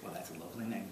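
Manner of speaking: put-on Texas accent. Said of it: "this horrible accent that I'm putting on".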